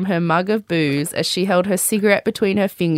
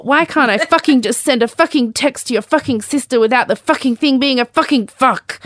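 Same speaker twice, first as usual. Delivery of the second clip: put-on drunken rant; 6 semitones higher, 3 dB louder than usual. Mother's drunk rant quoted.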